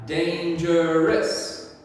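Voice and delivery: very slow, drawn-out dangerous; slow modelling. Shown as a demonstration. Teacher modelling the word for pupils, very slow. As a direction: stretch every syllable out slowly. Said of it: "teacher first and you second".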